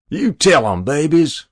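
high, loud call downward; gleeful shout. A narrator's reading. Hero calling down to newsboys, shouting. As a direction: shout it down to the street. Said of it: "he shouted down".

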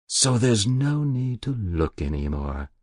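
put-on a guilty old woman pleading with the inspector; Muriel's voice. Muriel's answer.

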